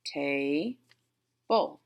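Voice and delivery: "Ta-, bull" with a long pause between syllables; split into syllables. Shown as a demonstration. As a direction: sound out "Ta-", stop, then "bull". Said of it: "I hear two syllables".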